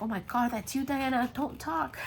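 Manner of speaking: high, loud teasing through laughter; mock the sick friend while laughing; coworkers cracking up. Coworkers tease Diana about her raspy voice, high and laughing. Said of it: "They're like".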